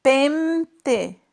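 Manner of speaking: Pente forced with lips shut, sounding like pemte; teacher demo of the wrong closed-mouth Pente. Shown as a demonstration. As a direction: try Pente with closed lips to show it fails. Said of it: "Tenta fechar".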